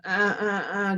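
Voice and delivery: creaky grinding grunts; vocal fry. Shown as a demonstration. Coach showing women's tense habit, vocal fry. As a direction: demonstrate a grinding fry in short bursts. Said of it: "will go into vocal fry".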